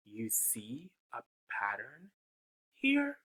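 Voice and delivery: hushed whispered question; secretive storytime whisper. Acted. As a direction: lean in and whisper to the kids.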